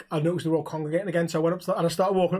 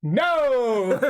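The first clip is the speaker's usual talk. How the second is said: firm refusal; 7 semitones higher, 4 dB louder than usual. Retold or imitated. Refusing the crowd's song demand.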